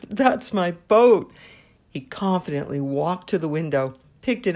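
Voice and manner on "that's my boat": put-on slow, loud, high boy's voice claiming the boat; a small boy standing firm, louder; boy's insistent claim. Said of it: "said to the proprietor".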